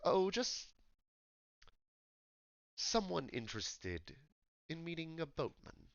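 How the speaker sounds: attempted sophisticated English accent; posh London accent. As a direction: try a refined London gentleman. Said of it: "posh London accent".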